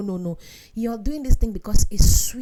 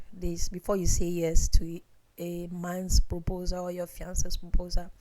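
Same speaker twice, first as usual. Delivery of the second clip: hushed confiding whisper; whispering a secret to women listeners; 2 semitones lower, 5 dB quieter than usual. Real, not acted. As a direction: lean in and whisper it to the ladies. Confiding to the ladies.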